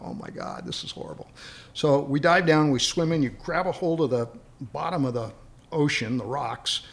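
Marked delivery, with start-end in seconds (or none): 0.0-1.3 hushed, much lower, breathless whisper; whispered dread. Retold or imitated. Rescue swimmer facing the cave in the swells, a hushed whisper. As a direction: whisper it as if scared to be heard. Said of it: "and I go".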